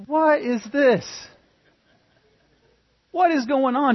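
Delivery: high, loud, put-on voice of the angry older brother; mock-outraged brother yelling at the house; indignant older brother. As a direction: bellow it in outrage from across the field. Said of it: "it's like".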